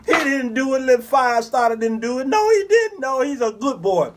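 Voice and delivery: high pleading mock sob; mock weeping mother. Mother pleading for her son in court, high mock sob. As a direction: plead his innocence tearfully. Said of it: "crying and weeping".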